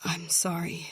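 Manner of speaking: breathy, hushed apology; guilty whisper. Acted. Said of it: "guilt weighed her down".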